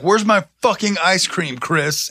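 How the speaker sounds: slow, emphatic wrestling promo yell; hammed-up wrestling promo threat; heroic rallying shout. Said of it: "gonna kick your door in and be like".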